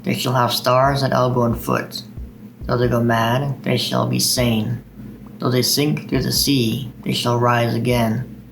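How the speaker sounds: slow, measured poetry reading; unhurried recital voice with steady cadence; poem recitation. Acted. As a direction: read it like a poem to an audience. Reads Dylan Thomas aloud.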